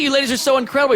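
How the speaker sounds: ordinary delivery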